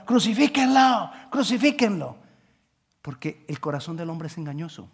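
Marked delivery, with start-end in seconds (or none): 0.1-2.2 crowd's cry. Retold or imitated. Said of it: "estar gritando".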